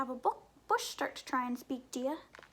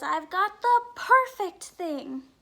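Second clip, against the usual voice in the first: sheep's voice; 4 semitones higher, 11 dB louder, slower than usual. Acted. Sheep character declares idea.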